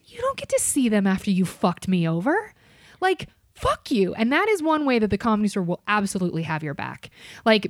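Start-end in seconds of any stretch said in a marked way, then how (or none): 3.0-4.1 slow, high, emphatic scorn; slow indignant. Real, not acted. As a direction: drag out the insult. Venting at customer.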